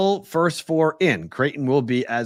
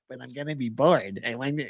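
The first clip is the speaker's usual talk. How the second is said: whining fan character; 4 dB quieter than usual. Retold or imitated. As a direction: play the fan's sulky objection, lightly. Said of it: "You did multiple voices".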